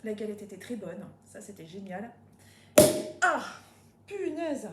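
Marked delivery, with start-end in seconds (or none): 3.2-4.7 exclaiming. Real, not acted. Cork effort outburst.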